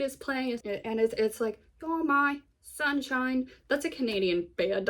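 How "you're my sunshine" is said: slow, higher British-accented singer imitation. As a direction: draw it out in a mock British accent. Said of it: "I gave them a British accent".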